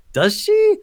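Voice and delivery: sceptical retort. Real, not acted.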